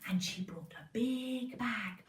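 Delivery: whispering. Real, not acted. Whispered storytelling.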